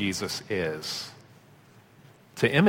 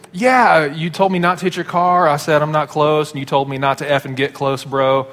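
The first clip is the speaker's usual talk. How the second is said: insisting retort; 3 semitones higher than usual. Retold or imitated. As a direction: push back at him, half-playful. Retold argument with the driver.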